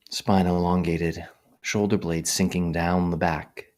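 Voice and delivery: measured guiding voice with long pauses; guided meditation. Real, not acted. Meditation teacher settling livestream listeners into posture, calm guiding voice. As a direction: guide listeners gently, one instruction at a time.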